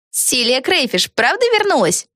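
slow probing question; probing girl. A narrator's reading. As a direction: ask carefully. Peggy asks.

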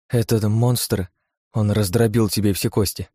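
slow, a touch of a tremble; trembling voice. Acted. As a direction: hold back tears, lightly. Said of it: "дрожащим голосом произнесла Лия".

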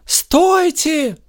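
very high cry; urgent high call. A narrator's reading. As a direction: shout to halt them. Lilya calls out to stop.

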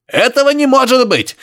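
high grunting exclaim through static; grunting professor. Acted. Professor protesting to Harry over radio, high grunting. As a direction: squeal it out like a grunting old man. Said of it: "прохрюкал профессор".

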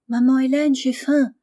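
put-on high-pitched child calling to mother; little girl. A narrator's reading. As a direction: call out like a hungry young girl. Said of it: "dit la petite fille qui entrait".

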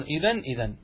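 إذن ending in a clear n both times; stop on nun. Shown as a demonstration. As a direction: say إذن as "idhan", not "idhaa". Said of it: "ويقفون عليها بالنون".

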